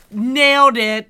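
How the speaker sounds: approving ad client. Retold or imitated. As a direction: draw it out like a pleased director. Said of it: "that's the voice that they're like".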